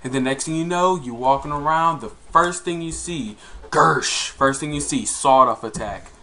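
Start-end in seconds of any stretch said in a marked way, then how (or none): 3.7-4.3 spelt-out "gersh" gun noise; sudden mouth-made blast sound; imitated shotgun blast. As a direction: mimic a shotgun going off.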